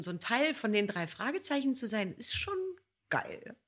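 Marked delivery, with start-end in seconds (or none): 2.1-3.6 excited. Real, not acted. Enthusiastic closing remark.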